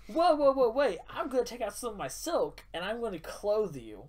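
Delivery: high, loud, panicked whoa with a laugh; alarmed rush. Retold or imitated. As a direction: jump in to stop it, laughing. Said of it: "Tanner's like".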